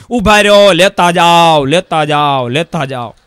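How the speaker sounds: loud call fading away each time; calling after. Acted. Husband calling after fleeing guests, loud then fading. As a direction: shout after them, then let it die off.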